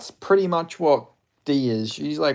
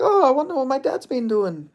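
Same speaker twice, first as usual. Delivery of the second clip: mock kid voice; 12 semitones higher, 3 dB louder than usual. Kid voiced looking up his dad.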